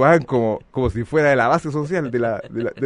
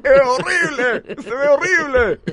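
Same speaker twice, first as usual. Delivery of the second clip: higher, louder horrified exclamation, slow; mock disgusted cry; 13 semitones higher, 5 dB louder, slower than usual. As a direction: wail that it looks awful. Gritos de la gente en el club. (exclamación horrorizada de burla, aguda, fuerte y lenta)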